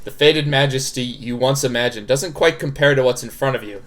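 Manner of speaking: measured, even visual novel narration; story narration. A narrator's reading. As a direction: read the scene out evenly. Reads the game narration.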